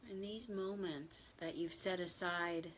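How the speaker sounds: gentle, even meditation guidance with long silences; unhurried, settled meditation voice; guided meditation. Real, not acted. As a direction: ease listeners into stillness, slightly hushed, leaving long pauses.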